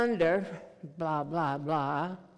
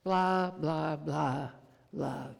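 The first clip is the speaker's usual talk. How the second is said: gentle repetition; 3 semitones lower, slower than usual. Shown as a demonstration. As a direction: say it lovingly, letting it fade. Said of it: "over and over again".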